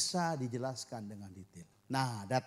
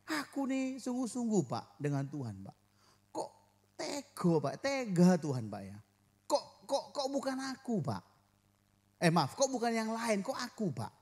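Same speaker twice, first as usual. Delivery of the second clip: higher complaining plea; whining complaint to God; 5 semitones higher than usual. Pretend. Believer complaining to the pastor about God, high whiny plea. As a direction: plead with God as if wronged. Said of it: "Kan gitu, ya".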